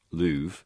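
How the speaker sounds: "louvre" said as /luv/; rhyme with louvre. Shown as a demonstration. Explaining the remove/love rhyme by saying "louvre" like /luv/. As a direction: say "louvre" with a long oo. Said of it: "So either it's remove and".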